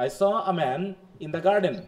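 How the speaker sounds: "saw" leaned on, "garden" falling at the end. Shown as a demonstration. Teacher showing students a statement, falling tone on "garden". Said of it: "falling টোনে বলতে হচ্ছে".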